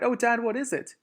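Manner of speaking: very high, eager little-fox voice; a small fox pleading to know; excited child fox. Acted. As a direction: bounce up with curiosity.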